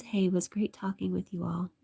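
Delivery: hushed, intimate comment reading; whispered chat reading. Acted. Whispering Vladimir's goodbye comment to the stream.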